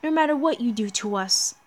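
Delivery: a hint of a mocking villain chorus; lightly voiced demon gods. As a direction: gloat over the doomed heroes.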